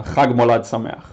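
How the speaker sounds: Chag Molad Sameach with a throaty Hebrew ch in Chag and Sameach; Hebrew pronunciation. Shown as a demonstration. Teaching viewers a Hebrew Christmas greeting, careful Hebrew pronunciation. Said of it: "So how to say Merry Christmas in Hebrew?".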